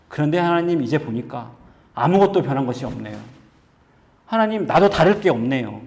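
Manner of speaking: lightly acted prophet's lament to God; pleading prayer. Preacher as Elijah praying under the broom tree, mildly acted pleading prayer. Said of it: "하나님께 기도합니다".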